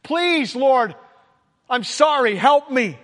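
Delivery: mild distressed cry to God; pleading prayer. Retold or imitated. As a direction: beg the Lord for help, half-acted. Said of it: "a cry of distress".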